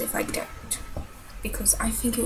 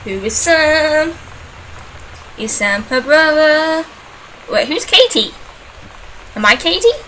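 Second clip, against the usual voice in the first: puzzled; 5 semitones higher, 9 dB louder than usual. Real, not acted. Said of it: "puzzling over the note".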